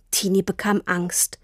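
usual speaking voice

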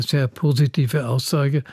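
normal talking voice

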